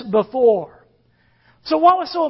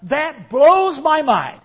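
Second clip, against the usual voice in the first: amazed exclamation; 4 semitones higher, 5 dB louder, slower than usual. Shown as a demonstration. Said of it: "We might say something like".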